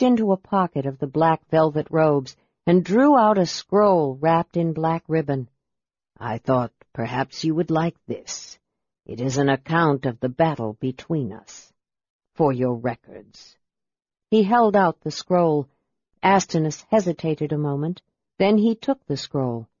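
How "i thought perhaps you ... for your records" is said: low and deliberate, a grave mage. Acted. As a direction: speak low, weighing each word. Raistlin's low voice.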